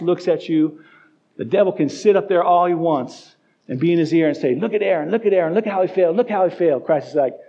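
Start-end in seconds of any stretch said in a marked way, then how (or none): 4.5-6.8 sneering accuser. Acted. Devil accusing in God's ear.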